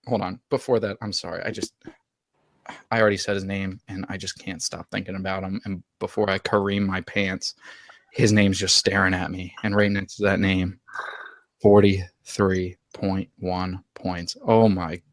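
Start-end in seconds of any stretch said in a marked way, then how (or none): 0.1-5.6 hushed. Acted. Overcome thinking about player. 11.6-14.3 slow savoring. Acted. Savoring the score.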